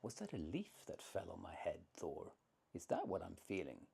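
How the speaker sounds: lightly sarcastic giant; Skrymir. Acted. Giant asking Thor about the blow, mildly sarcastic. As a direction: feign innocent puzzlement with a touch of sarcasm. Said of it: "in a kind of sarcastic voice".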